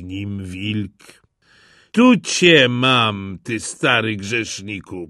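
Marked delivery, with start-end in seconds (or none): 1.9-5.1 louder, slow and triumphant; a hunter cornering the wolf, satisfied; hunter's triumph. Acted. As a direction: catch the old sinner, relishing it. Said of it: "powiedział".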